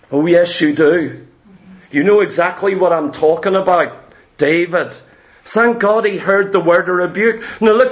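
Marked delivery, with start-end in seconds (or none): 0.1-4.9 much lower, knowing and firm; stern prophet. Acted. Prophet Nathan insisting to David, lower stern voice. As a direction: press the truth home, low and steady.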